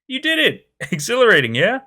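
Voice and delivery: high, loud, laughing with delight; thrilled laughing. Acted. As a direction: cheer her on, laughing. Bruno thrilled, laughing at bridge.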